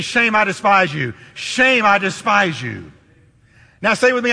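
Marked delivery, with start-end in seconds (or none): 0.0-2.9 call and response. Shown as a demonstration. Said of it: "Can you say it with me?".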